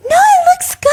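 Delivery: squeaky high fake-nice reassurance; high mock sweet voice. Friend faking praise in a high squeaky voice. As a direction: pitch way up, sugary fake praise.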